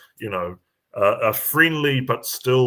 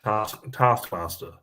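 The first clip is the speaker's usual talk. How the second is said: slow New Zealand-accented taskmaster; careful, slowed New Zealand pronunciation; slower than usual. Shown as a demonstration. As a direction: try out taskmaster in a Kiwi accent. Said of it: "saying it the New Zealand way".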